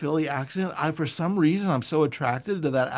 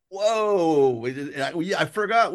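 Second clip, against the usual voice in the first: retold amazement; 3 semitones higher, slower than usual. Retold surprise at hearing hometown accent.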